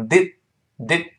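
"did" with the final d held back; unreleased d. Shown as a demonstration. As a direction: stop the last d in "did" without releasing it. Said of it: "那个的失去爆破了".

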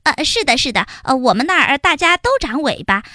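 quick little ant voice, bluffing; nervous liar ant. Acted. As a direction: pile on the lie. Heihei lies more. (黑黑硬着头皮撒谎)

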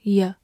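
"ye" as a reduced "yə"; weak form. Shown as a demonstration. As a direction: say "ye" with an unstressed schwa, like "yuh". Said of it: "或者弱读成".

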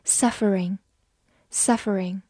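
slow, drawn-out Suffering; slow model word. Shown as a demonstration. Teacher models the new word for students, slow and clear. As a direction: say Suffering slowly, every syllable clear. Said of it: "teaching the ing form".

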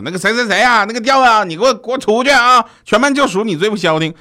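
high, loud scolding shout without turning round; teacher yelling. Retold or imitated. Teacher facing the board yells at the noisy class, high and loud. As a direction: bark out the unruly pupil's name like a fed-up teacher. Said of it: "老师头也不回，上来就说".

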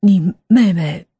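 slow, pointed blunt question. A narrator's reading. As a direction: ask it outright, word by word. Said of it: "立刻毫无掩饰地问道". (毫无掩饰、一字一顿地发问)

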